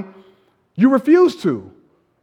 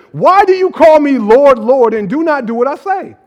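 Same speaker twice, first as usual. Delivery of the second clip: voicing Jesus; 4 semitones higher, 5 dB louder than usual. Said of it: "this is what Jesus says".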